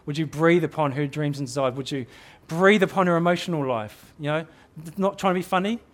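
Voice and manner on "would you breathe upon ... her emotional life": prayerful. Shown as a demonstration. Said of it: "Bring them to the Lord and say".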